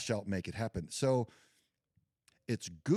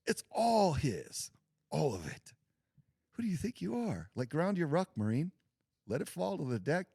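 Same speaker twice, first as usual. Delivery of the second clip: harsh drill sergeant; 8 semitones higher than usual. Retold or imitated. Veteran voicing the pastor's message as drill sergeant. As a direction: bark it like a drill instructor dressing down a recruit. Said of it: "he said it a lot nicer than this".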